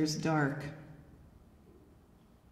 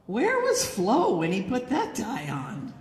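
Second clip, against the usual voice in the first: sarcastic; 2 semitones higher than usual. Shown as a demonstration. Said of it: "And the message is".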